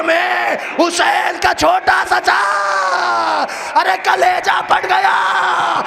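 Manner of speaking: high, loud, slow wailing cry; a father's anguished wail rising to a shriek; grief-stricken wail. Acted. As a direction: cry out in anguish, stretching every word. Climax of the lament.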